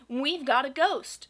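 proudly. Acted. The Scotts proudly announce their ghost, slow and loud. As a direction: puff up with pride as you say it. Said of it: "said the Scotts proudly".

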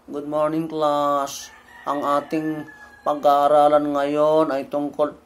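mock monotone teacher drone; dull teacher voice. Shown as a demonstration. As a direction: sound like you'd put the class to sleep. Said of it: "hindi ka enthusiastic".

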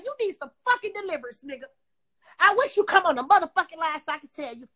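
ordinary delivery

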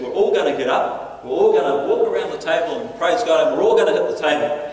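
loud, emphatic rallying orders; rally everyone, hitting each instruction hard; decisive group command; had enough. Acted. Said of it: "he'd had enough".

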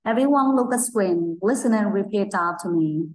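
slow, clear teacher instruction; slow classroom command. Shown as a demonstration. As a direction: spell it out slowly for the class. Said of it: "nghe và nhắc lại theo cô nhé".

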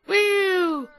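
high excited woo; a delighted high whoop at good news. Real, not acted. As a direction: cheer it out loud. Cheering at friendly neighbour.

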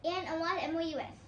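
rapid letter by letter spelling. Real, not acted. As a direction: rattle off each letter fast. Spelling bee answer. (तेज़ी से अक्षर-अक्षर spelling)

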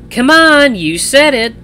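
loud, high-pitched goading; teasing protest. A narrator's reading. Sister teasing her embarrassed brother.

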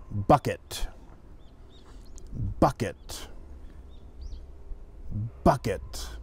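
bucket said the native English way; English word dictation. Shown as a demonstration. Teacher reads bucket for students to write. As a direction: read bucket clearly for dictation. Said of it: "say a word with my accent".

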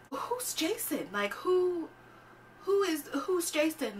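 high-pitched mock bewilderment; hammed-up clueless puzzlement; puzzled questioning. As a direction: ask it in a high, put-on confused voice. Acts out puzzlement at unknown name.

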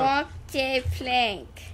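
put-on slow meme pirate accent; a bit of pirate accent, drawn out; slight pirate accent. Player echoing the pirate order, slight meme pirate accent. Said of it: "throwing a little bit of an accent".

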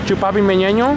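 high goofy cry, rising at the end; silly catchphrase call. Pretend. Bored while waiting to cross, silly high call. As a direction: pitch it up like a silly question.

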